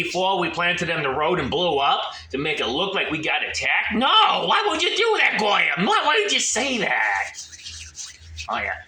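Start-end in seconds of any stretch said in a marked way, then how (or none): 3.9-7.3 laughing shout. Acted. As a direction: yell it through a laugh. Laughing mock outrage.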